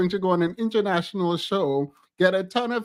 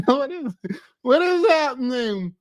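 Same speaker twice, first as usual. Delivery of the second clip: high, disbelieving what is; can't believe what she's seeing; incredulous; 7 semitones higher, 3 dB louder than usual. Real, not acted. Laughing disbelief at the clip.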